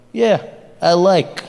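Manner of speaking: put-on slow, blunt Russian accent. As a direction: say it slowly like a mock Russian. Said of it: "the Russians were just like".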